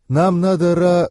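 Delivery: attempted objection. A narrator's reading. Alina trying to object before being interrupted, protesting. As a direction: begin to object, break off mid-word. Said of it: "попыталась возразить Алина".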